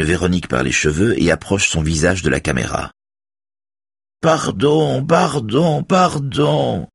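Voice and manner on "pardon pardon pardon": high mocking falsetto mimicry; thin head-voice imitation, far above normal. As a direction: squeal it in a put-on falsetto. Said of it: "dit Raphaël d'une voix de fausset".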